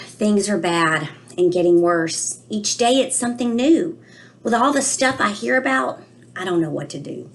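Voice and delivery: put-on a child's worried storybook voice, read aloud gently; reading to children. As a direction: read it to the class like a puzzled little boy. Reads children's book in character.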